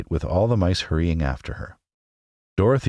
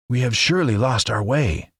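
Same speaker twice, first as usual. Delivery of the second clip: higher, mildly grumbling scarecrow; 7 semitones higher than usual. A narrator's reading. Scarecrow complaining to his companions, mild grumble. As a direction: grumble it, lost and fed up. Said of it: "The Scarecrow began to grumble".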